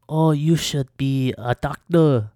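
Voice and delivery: hammed-up imitation of an old Asian lady's accent; bad Asian lady accent. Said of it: "Asian lady accent is horrible".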